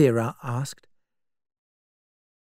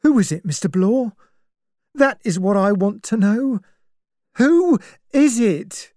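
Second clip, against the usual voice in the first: urgently; 9 semitones higher, 5 dB louder than usual. A narrator's reading. Servant presses Blore for the murderer's name, urgent. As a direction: demand an answer, getting more insistent. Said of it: "Rogers said urgently".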